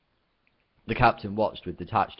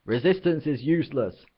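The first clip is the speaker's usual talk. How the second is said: loud, higher bellowed slogan; 7 semitones higher, 5 dB louder than usual. Acted. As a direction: boom the drill phrase. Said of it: "the guard shouting again".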